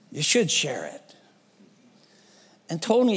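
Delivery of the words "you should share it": whispered. Retold or imitated. The bum whispering his wisdom to Tony, hushed. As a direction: breathe it out like a secret. Bum's wise line, whispered.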